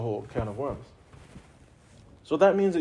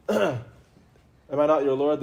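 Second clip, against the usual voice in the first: slow and louder, grave and weighty; booming divine question; 5 dB louder, much slower than usual. Pretend. Teacher voicing God asking the souls, slow and grand.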